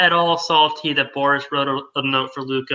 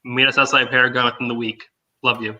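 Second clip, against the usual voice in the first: character voice; 5 semitones lower than usual. Pretend. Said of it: "read that in my character voice".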